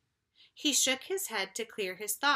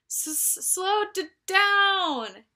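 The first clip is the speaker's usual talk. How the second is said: higher, stuttering louder to the end; higher, jerky bumpy-ride stutter; jolted stammer; 9 semitones higher, 7 dB louder, slower than usual. Acted. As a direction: stammer as the ride shakes you.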